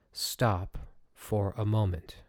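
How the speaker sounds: slow, calm "Stop for a moment" with each word given weight; calm reminder. Shown as a demonstration. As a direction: let "Stop for a moment" settle slowly and calmly. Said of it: "Just remember this. It's very, very powerful".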